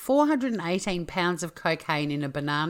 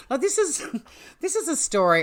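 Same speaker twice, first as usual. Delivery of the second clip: laughing; 10 semitones higher, 3 dB louder than usual. Real, not acted. Laughing at the absurd story.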